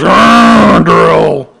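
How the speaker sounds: loud high ah then drill; dentist's drill call. Acted. Kids voicing a dentist, loud high call. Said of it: "The dentist goes".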